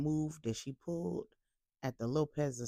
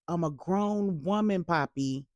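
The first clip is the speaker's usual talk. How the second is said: louder, yelled at her father's back; yelling; 5 dB louder than usual. Acted. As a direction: shout it after him as he walks away. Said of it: "She yelled at his back".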